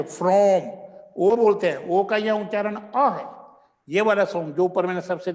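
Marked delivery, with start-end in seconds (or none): 0.0-0.6 "from" with a short uh vowel; schwa vowel. Shown as a demonstration. Teacher gives the right "from", loud, with uh. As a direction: say "from" as frum. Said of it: "अ है शब्द ये".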